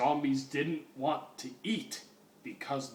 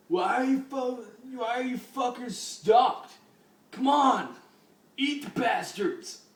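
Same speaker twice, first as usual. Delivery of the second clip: higher, louder frantic yell; mad shout; 9 semitones higher, 4 dB louder than usual. Acted. Lead hippie yelling at stalled zombies, frantic shout. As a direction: shriek at the zombies to attack. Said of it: "The mad lead hippie then shouted".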